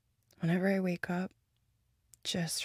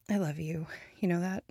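tender whisper; faster than usual. Acted. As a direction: whisper your love close up. Declaring love while cuddling.

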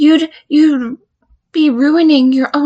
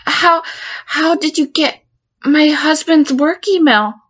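alarmed disbelief; 4 semitones higher than usual. Acted. To the counselor holding her husband's email, alarmed disbelief. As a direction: pitch jumps higher in panic.

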